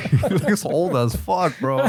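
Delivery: laughing hard, high. Real, not acted. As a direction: squeal it out laughing. Laughing at photo.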